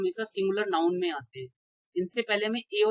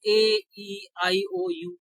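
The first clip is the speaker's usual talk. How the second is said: slow listing; much slower than usual. Shown as a demonstration. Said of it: "spelling out the vowels".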